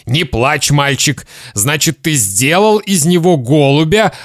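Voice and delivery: controlled, mildly soothing dad; trying to stay calm. Acted. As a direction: coax the boy with forced patience. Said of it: "стараясь быть спокойным".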